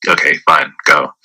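low-pitched, unreacting dismissal; very calm. Man tells date she can leave, very calm. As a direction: let them go without any fuss. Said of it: "I very calmly".

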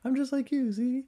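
very high, mock little-kid voice; pleading child. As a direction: squeak it like a kid begging bullies. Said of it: "as a child, I was like".

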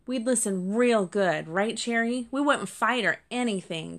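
small kit promising papa to behave, lightly voiced; earnest kit promise.

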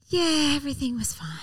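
whispered, falsely cheerful; whispered white lie to the waiter. Retold or imitated. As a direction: whisper the polite fib. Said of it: "they're like".

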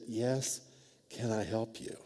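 softly voiced timid manager; a hint of a nervous woman answering; hushed, braced for complaints. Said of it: "a timid voice".

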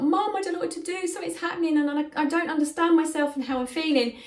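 put-on a lost boy pleading for help; whining son. Possessed son begging his mum for help, high whine. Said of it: "he was whining".

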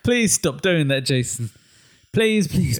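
exasperated, drawn-out begging; mock pleading. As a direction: beg an absent actor in playful despair. Mock plea to an absent actor.

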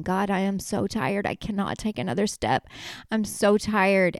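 mildly whiny, exhausted plea; a light imitation of tearful exhaustion; mock crying. Dragged along and pleading with God, mock crying.

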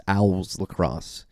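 Owls said slowly in a Philly accent; drawn-out Philly Owls Lacrosse. Real, not acted. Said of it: "my Philly accent coming out in that pronunciation".

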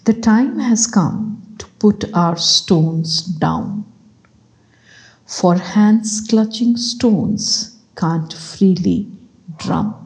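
measured, emphatic reading of a reflective passage; deliberate inspirational book reading; reading aloud. Acted. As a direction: read it out firmly, phrase by phrase. Reads a book extract aloud.

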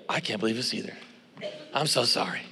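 low, soft retold apology; sheepish apology. Guilty student to his professor, low sheepish apology. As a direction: drop the voice, softly contrite.

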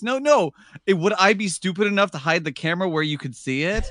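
starts high, laughing through the quote; mock his defensive reply with a laugh; high, laughing retelling. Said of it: "Instead of just saying".

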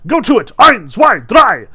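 loud, gleeful call; shouted countdown. A narrator's reading. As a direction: count the cat in at full volume. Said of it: "he shouted to the cat".

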